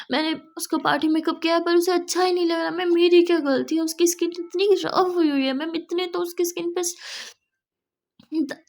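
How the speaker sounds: flustered salon employee begging her boss to come; panicked pleading. Acted. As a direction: beg the boss in a flustered rush.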